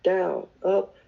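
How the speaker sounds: counting off exercises. Retold or imitated. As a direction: imitate a rote punishment count-off. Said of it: "He counted off the exercises".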